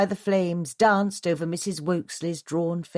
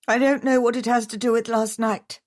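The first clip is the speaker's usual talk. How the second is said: bristling; 6 semitones higher, 4 dB louder than usual. A narrator's reading. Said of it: "summoned enough energy to bristle".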